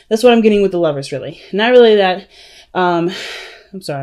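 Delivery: breathless, gasping between words; out of breath. Real, not acted. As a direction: talk while catching your breath. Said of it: "I'm out of breath, y'all".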